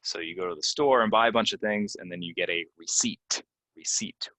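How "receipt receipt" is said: receipt said ree-SEET with no P sound; silent P. Shown as a demonstration. Teacher modelling receipt with a silent P. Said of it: "It has a silent P".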